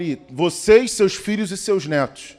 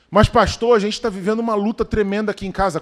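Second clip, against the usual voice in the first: worried parent; 2 semitones higher than usual. Acted. Pastor voicing a struggling parent.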